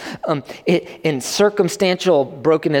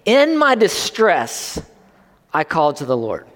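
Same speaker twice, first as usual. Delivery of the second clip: slow scripture reading. Shown as a demonstration. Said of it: "He said".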